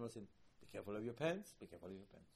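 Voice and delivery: low, softened fatherly caution; tactful warning. Retold or imitated. King spares his child embarrassment, gently cautioning. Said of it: "did not want to embarrass the child".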